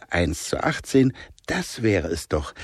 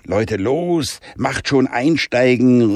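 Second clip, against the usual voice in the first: calling the others to get in, a bit slow; mild call; 4 semitones higher, slower than usual. Acted. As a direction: urge everyone aboard. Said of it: "rief Jonah laut". (Jonah ruft die Freunde zum Einsteigen, leicht gerufen)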